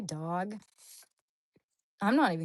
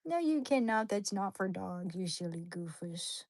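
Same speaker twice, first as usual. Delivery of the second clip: scolding pet. Retold or imitated.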